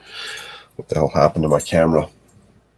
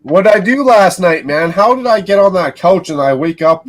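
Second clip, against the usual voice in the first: incredulous outburst; 11 semitones higher, 6 dB louder than usual. Real, not acted. Greeting friend, baffled.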